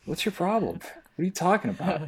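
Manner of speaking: high, incredulous mock outrage; a hammed-up retold outburst at a cousin; mock outraged self. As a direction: play your own disbelief big and high. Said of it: "I'm like".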